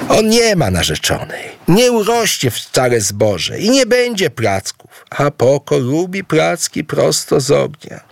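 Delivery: put-on high childish voice held to the end; a spoiled boy whining about his flatbreads; whiny son. Poko the spoiled son complains to his parents, high and whiny.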